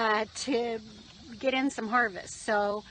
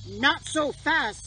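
pig voice; 3 semitones higher, much slower than usual. Acted. Socialist pig speaks.

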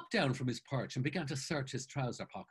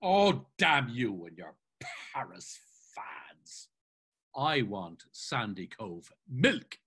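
slow, mildly peeved insistence; understated huffy demand; petulant grumbling; much slower than usual. Acted. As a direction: draw out each word in a sulk. Mulligan in a pet over milk.

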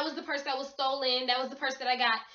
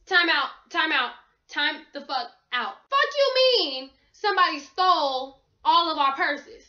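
loud, incredulous outburst; outraged disbelief; 4 dB louder than usual. Retold or imitated. Retelling friends' news, she erupts in loud disbelief. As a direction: demand answers, half shouting.

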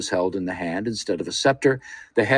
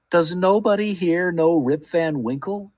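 despairing cry; 8 semitones higher than usual. A narrator's reading. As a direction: cry it out, lost and desperate. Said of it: "cried out in despair".

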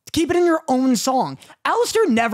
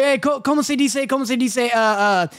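mock Spanish speaker groping for words; Spanish accent. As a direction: hesitate in a put-on Spanish accent. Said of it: "why'd you go Spanish?".

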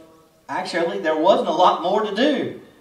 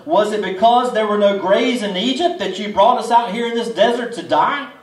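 higher, louder mock sarcasm at the leader; raised sarcastic jab at Moses; sarcastic taunt; 4 semitones higher, 5 dB louder than usual. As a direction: throw the words at Moses with a sneer. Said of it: "mean words of sarcasm".

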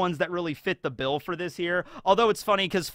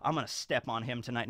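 low sultry tone; 6 semitones lower, 9 dB quieter than usual. Retold or imitated. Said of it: "Hina's just like".

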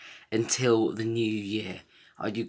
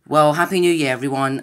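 loud cheerful greeting; 4 semitones higher, 9 dB louder than usual. Real, not acted. Signing off the New Year video.

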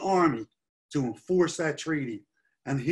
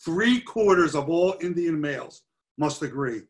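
"Three-quarters" punched out with raised pitch; stress on Three-quarters; 3 dB louder than usual. Real, not acted. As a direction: drive home "Three-quarters" as the key figure. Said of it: "So I want to stress that".

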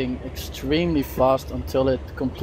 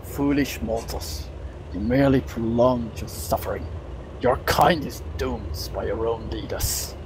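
dark lord; 3 semitones lower than usual. Acted. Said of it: "you hear a faint whisper from the, uh, from the portal itself".

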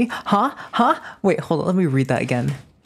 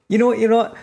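excited retort; 8 semitones higher, 4 dB louder, much faster than usual. Real, not acted. Retort to chat's jab.

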